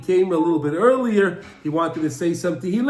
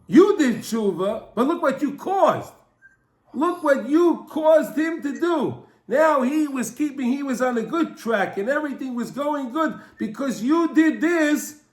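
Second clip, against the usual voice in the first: higher-pitched, emphatic reproach; acted accusation; 4 semitones higher than usual. Heavenly court confronting two sinners, emphatic acted accusation. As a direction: press the blame home, leaning on each charge.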